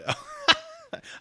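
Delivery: sudden high-pitched burst of laughter; a real high squeal of a laugh. Real, not acted. Laughing outburst.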